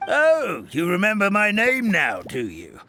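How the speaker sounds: sarcastic. Acted. Grandpa teasing the faking grandson.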